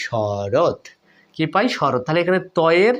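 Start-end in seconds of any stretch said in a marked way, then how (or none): 0.1-0.8 শরৎ said as a whole word ending in a closed t; joined sounds. Shown as a demonstration. Teacher joins the letters for students, closed final t. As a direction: close শরৎ on a bare t, no vowel after it. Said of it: "যোগ করলে কি পাই".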